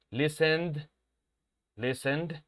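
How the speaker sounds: "Listened" said with a final voiced d; voiced d ending. Shown as a demonstration. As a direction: end "Listened" on a clear d.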